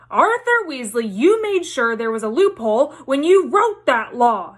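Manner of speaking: furious accusing shout; shouting wife. Acted. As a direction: tell him off at full volume. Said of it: "shouted Missus Weasley".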